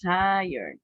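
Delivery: "tired" as "TIE-erd", ending in r plus d; correct pronunciation. Shown as a demonstration. Teacher modelling the word for students, "tired" as "tie-yerd". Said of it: "Okay, we say".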